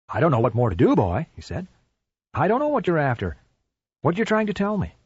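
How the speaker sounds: a touch of exasperation, lightly voiced man; pleading, a little helpless, to the dog; frustrated owner.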